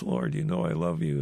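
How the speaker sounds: understated, subdued retold sorrow; a touch of grief in the reply; grieved. Peter answers Jesus the third time, mildly grieved. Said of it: "it says Peter is grieved".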